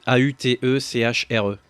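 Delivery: A U T E C H R E letter by letter, in French; spelling it out. Shown as a demonstration. Correcting the co-host's spelling, A U T E C H R E letter by letter. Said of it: "Non, O T".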